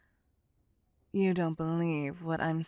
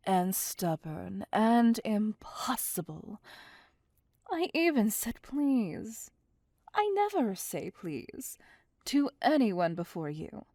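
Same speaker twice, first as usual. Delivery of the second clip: exasperated outburst; 3 semitones higher, 4 dB louder than usual. Acted. Vampire ranting at her stubborn prisoner, exasperated. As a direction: let the patience snap. Captor losing patience, outburst.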